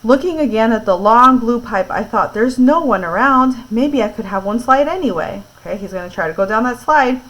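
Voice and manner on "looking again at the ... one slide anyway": clear, lively read-aloud voice; story narration. A narrator's reading. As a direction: read it to a listening class.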